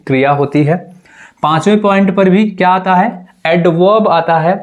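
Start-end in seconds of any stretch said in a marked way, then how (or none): 3.5-4.1 एडवर्ब ending in "wob", no R; silent R. Shown as a demonstration. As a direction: drop the R in एडवर्ब. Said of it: "यहाँ पर भी जो आर होता है". (एडवर्ब में आर silent)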